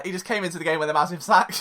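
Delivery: quick throwaway deadpan line; deadpan punchline. Shown as a demonstration. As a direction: toss it off fast, straight-faced. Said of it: "I should just end it there".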